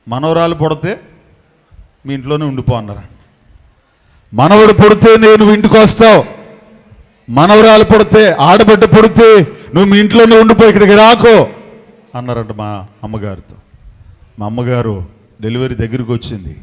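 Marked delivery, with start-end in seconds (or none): 4.3-11.5 hot-tempered father's stern warning, retold; short-tempered father. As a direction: voice the father laying down the law, firm. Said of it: "మా నాన్నగారికి ముక్కు మీద కోపం".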